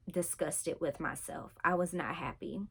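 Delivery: breathy whispered admission; whispered confession. Real, not acted. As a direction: let it drop to a whisper. Confessing her eating disorder.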